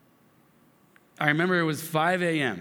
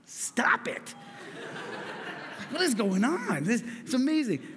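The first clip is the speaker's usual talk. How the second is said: higher, laughing in disbelief; amazed laughter; 8 semitones higher than usual. Real, not acted. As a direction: laugh it out, can't believe it. Stunned by daughter's words.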